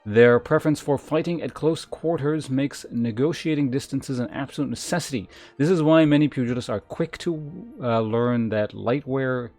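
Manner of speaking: emphatic, measured reading of lore; game text read-aloud. Acted. Streamer reads gladiator class lore to chat, emphatic read-aloud. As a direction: announce each class description with weight.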